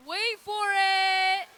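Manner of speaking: loud, slow teasing build-up; hype-up shout. Acted. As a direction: stretch it out to tease the crowd. Hyping the crowd before team name.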